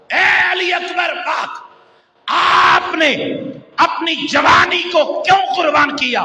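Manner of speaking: high, loud impassioned cry; calling out. Acted. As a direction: call out across the distance. Preacher calls out to martyr.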